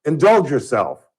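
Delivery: slow, deliberate mock captain's order; lightly voiced starship captain, drawn out; slow playful captain impression; Captain Kirk. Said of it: "He would say, um".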